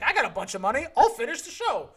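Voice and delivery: hint of a breezy ex-wife, pitch jumping up at the end; lightly voiced ex-wife. Podcaster imagines the ex-wife stepping in to fund it, lightly acted boast. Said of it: "came in and was like".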